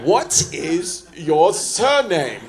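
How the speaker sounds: slow, far-off officer voice; lightly voiced border agent asking; customs officer.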